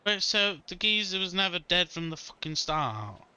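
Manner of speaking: high, loud disbelief; can't believe the twist; incredulous. Real, not acted.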